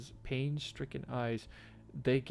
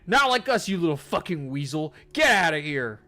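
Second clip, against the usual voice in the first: much higher, much louder yelling; furious screaming rant; 8 semitones higher, 14 dB louder than usual. Real, not acted. Yelling insults at Ben, furious screaming.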